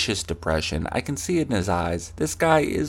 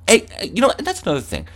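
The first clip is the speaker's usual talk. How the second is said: acted angry rant; 2 semitones higher than usual. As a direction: rant at an imaginary opponent. Acted rant at imaginary opponent.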